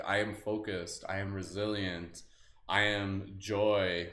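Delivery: slow, calm affirmations, each one set apart; slow affirmation reading. Acted. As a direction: let each "I am" sink in slowly. Affirmations again.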